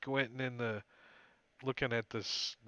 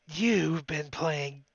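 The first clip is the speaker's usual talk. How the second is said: spluttering; 4 semitones higher, 5 dB louder, much slower than usual. Acted. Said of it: "as he spits some of the water".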